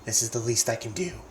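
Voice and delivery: put-on a brooding teen whose voice breaks; moody teen boy voice. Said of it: "have my voice crack while reading dialogue than with Gladeon".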